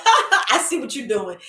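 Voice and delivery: amused, laughing through the words; laughing self-talk. Retold or imitated. Catching herself in self-sabotage, laughing self-talk. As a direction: catch yourself out with a chuckle. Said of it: "And I'll laugh".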